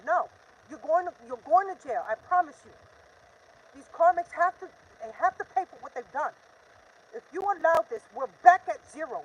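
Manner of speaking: loud, heated warning; angry. Real, not acted. Warning the karmics they are going to jail, angry and loud. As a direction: promise it like a threat. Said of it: "I'm just so pissed".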